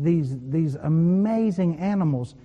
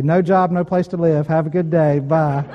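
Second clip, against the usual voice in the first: louder, mock-brisk phone report; straight to the point; 5 dB louder than usual. Young man phoning his future father-in-law, straight to the point. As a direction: rattle off the bad news, louder, and sign off. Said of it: "Get right to the point".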